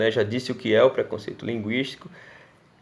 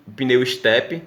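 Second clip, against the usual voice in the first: pneu step drawn out slowly, "pinewi"; saying the term slowly for the class; slow stressed word; much slower than usual. Shown as a demonstration. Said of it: "ele chega a mencionar".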